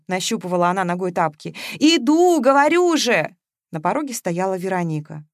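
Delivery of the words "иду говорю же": louder, high, annoyed calling out; impatient call. A narrator's reading. Masha shouts impatiently at the insistent doorbell.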